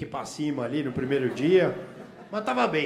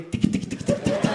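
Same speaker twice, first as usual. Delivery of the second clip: put-on drunk clicking noises; 5 dB louder than usual. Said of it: "Aí eu falei".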